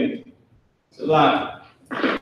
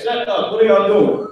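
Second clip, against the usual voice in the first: mildly raised, higher parent voice; scolding parent; 5 semitones higher than usual. Acted. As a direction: lightly act out telling kids off. Parent scolding rowdy kids, acted.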